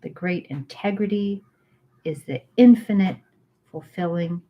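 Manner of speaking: slow, measured recital with long pauses; reading scripture aloud. Acted. Reading the Tao Te Ching chapter to her friend, measured recital. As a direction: let each line settle before the next.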